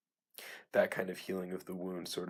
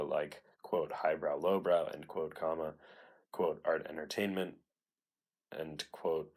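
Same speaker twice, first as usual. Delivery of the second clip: dictating. Shown as a demonstration. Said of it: "I figured I'd read it out loud".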